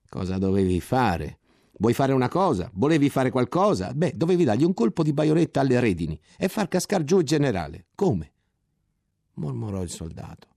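molto più acuto e forte, sarcasmo tagliente; invettiva sarcastica. Acted. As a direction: umilia il soldato con rabbia beffarda. Ottolenghi inveisce contro il soldato. (Ottolenghi inveisce contro il soldato, acuto, forte e beffardo)

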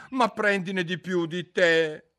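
high, slow, solemn earnestness; with great seriousness. A narrator's reading. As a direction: say it as if it were grave advice. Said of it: "con estrema serietà".

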